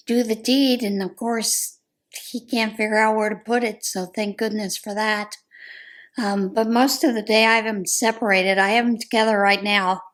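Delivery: ordinary talk, nothing marked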